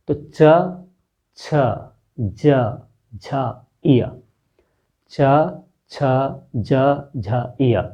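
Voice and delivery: च, छ, ज, झ, इय repeated slowly with the tongue on the palate; palatal letter demo. Shown as a demonstration. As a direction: say च छ ज झ clearly, letter by letter. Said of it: "ये तालु स्थान से उच्चरित हो रहे हैं".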